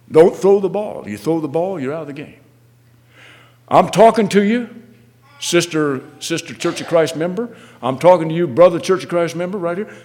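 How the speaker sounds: single out each listener with a pressing exhortation; exhorting preaching. Real, not acted. Preacher addresses the congregation.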